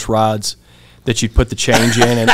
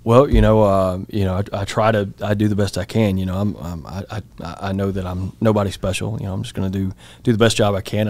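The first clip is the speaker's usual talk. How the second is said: halting, modest self-quote trailing softer; humble hedging; 2 semitones lower, 5 dB quieter, faster than usual. Retold or imitated. Trainee answering his training officer, humbly hedging. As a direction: stumble lightly through a meek answer.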